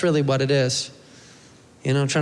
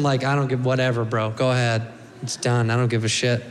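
slightly lowered, couldn't-care-less delivery; resigned indifference; 2 semitones lower than usual. Acted. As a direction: shrug it all off, mildly fed up. Voices the tattooed man's indifference.

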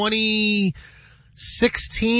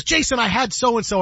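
Michael Rappaport; 5 semitones higher than usual. Retold or imitated. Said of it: "And he goes".

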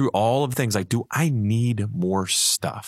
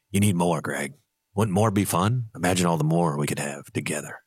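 a hint of a sly tempting devil; lightly voiced devil whispering temptation; 4 semitones lower than usual. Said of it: "the devil duck goes".

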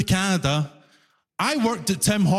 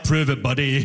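lower, blunt challenge from a mock official; gruff official; 6 semitones lower than usual. Comic Canadian government demanding proof, lower gruff challenge. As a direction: bark it like a sceptical border officer. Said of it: "The Canadian government knows that and was like".

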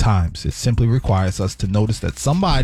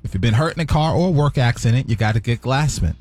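ad read; 2 semitones lower than usual. Acted. Reads sponsor ad.

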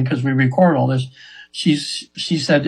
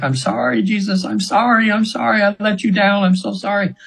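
higher, mild mock anguished pleading; retold screaming apology; 5 semitones higher than usual. Client in trance apologizing to Jesus, mild higher pleading. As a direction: echo her cries without full volume. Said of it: "she's screaming like".

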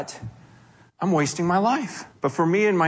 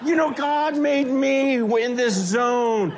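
excited laugh; 4 semitones higher, slower than usual. Real, not acted. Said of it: "preacher laughing at his own joke".

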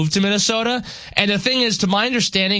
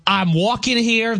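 put-on slow, higher-pitched New York accent; New York movie line; 5 semitones higher than usual. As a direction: quote the film line as an indignant New Yorker. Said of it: "you know the famous line".

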